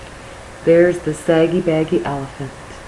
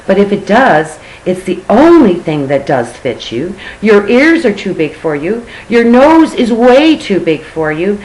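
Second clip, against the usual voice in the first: loud, higher saucy parrot; 3 semitones higher, 4 dB louder than usual. Acted. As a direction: tease him like a cheeky parrot. Parrot voiced in story.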